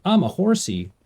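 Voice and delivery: high, playful horsey voice; playful horse voice. Pretend. Streamer riding a horse, playing horsey. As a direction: announce it like a silly pony. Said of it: "playing horse".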